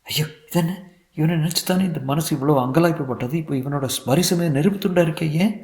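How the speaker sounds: whisper-close inner cry of a startled wife; young wife recoiling in dismay; distressed young wife. Acted.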